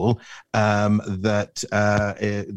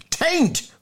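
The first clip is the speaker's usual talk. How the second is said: very high, indignant yelp; roar. Acted. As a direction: blurt out a high-pitched mock denial. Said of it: "roared Bunter".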